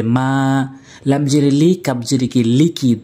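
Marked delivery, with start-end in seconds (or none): 0.0-0.7 "মা" with the vowel held long; one-beat stretch. Shown as a demonstration. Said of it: "এক আলিফ টেনে". 2.4-3.0 "লিকি" with both vowels short; quick short vowels. Shown as a demonstration. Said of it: "দ্রুত বলতে হবে".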